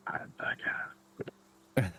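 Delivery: hushed, hesitant whisper; reluctant whispered reply. Acted. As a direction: whisper it with a halting pause. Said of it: "and then whispers, like".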